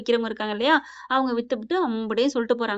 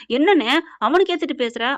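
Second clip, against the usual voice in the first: louder, indignant retort to a brother; retold angry protest; 3 semitones higher, 5 dB louder than usual. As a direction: act out a heated objection. Slapped brother protests in quarrel. (ஆவேசமாக தட்டிக் கேட்பது போல)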